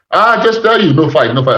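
put-on Iranian or Eastern European accent. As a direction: imitate the bouncer's Iranian accent, pitch jumping up at the start. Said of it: "I think it's Iranian, or if it's not Iranian".

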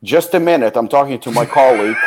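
mock curt brush-off; brusque brush-off. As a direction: mimic a clerk putting off a customer. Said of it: "points his finger at me and goes".

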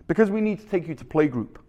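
put-on quick Canadian-accented dad explanation; put-on Canadian accent, hurrying along; dad answering in a mock Canadian accent. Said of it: "my best Canadian accent".

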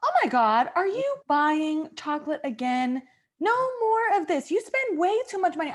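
high, fast nagging wife; scolding wife. Acted. Wife scolding husband caught buying chocolate, high fast nag.

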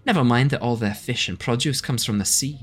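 a big friendly dock greeting; half-orc dockmaster. Acted. Dockmaster Batara greeting arriving travellers, hearty welcome.

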